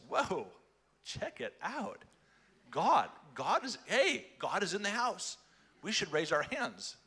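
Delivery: imitating a too casual worshipper; breezy, hey-dude enthusiasm; casual mock hype. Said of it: "just kinda went like this".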